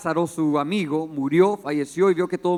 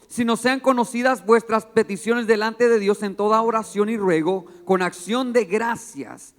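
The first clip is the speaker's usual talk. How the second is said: scripture reading. Acted. Reads scripture aloud.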